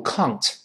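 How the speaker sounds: "can't" mispronounced with an "ng" sound; wrong British can't. Shown as a demonstration. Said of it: "注意不要读".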